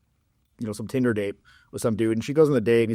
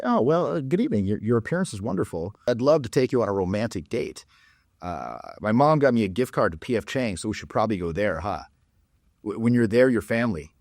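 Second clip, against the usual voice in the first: mock urbane gentleman. A hint of a mock-polished gentleman inviting a woman to dinner. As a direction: play a stiff would-be sophisticate asking her out. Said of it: "if you wanna perhaps be a bit more urbane".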